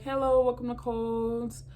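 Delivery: cheery store greeting; cashier greeting. Retold or imitated. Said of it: "just be like".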